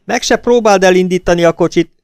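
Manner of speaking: high shrill shriek of outrage. A narrator's reading. Sister-in-law shrieking at Hazel as she flees, high shriek. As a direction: scream it at her, furious. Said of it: "visította".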